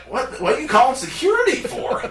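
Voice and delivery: high-pitched, stammered retold protest; mock incredulous. Friends answering the clerk who called security, mock incredulous.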